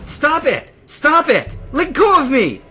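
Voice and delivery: high, loud screamed protests; struggling shouts. A narrator's reading. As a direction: scream to be released. Struggling against being held.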